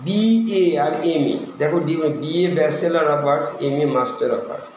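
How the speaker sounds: slow, spelled-out abbreviations; slow dictation. Shown as a demonstration. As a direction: read each letter slowly for the class. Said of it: "যেমন আমি বলি". (ধীরে ধীরে সংক্ষেপ পড়ানো)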